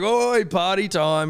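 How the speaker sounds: high, loud, drawn-out party call; jolly dad entrance. Retold or imitated. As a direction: announce yourself like a goofball dad. Imitates dad's goofy party entrance.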